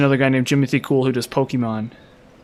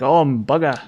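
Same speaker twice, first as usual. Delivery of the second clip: imitated Australian accent. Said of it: "type accent".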